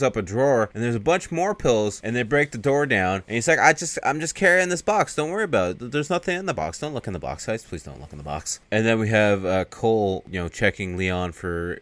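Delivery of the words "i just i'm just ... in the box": mock pleading. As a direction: imitate a cornered man's excuses petering out. Cornered suspect pleading, acted in retelling.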